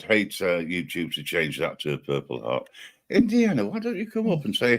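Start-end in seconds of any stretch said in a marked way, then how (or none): 3.1-4.8 very high-pitched summons; raised, high call to a viewer; calling someone out. Real, not acted. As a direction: coax a lurker out in a high voice.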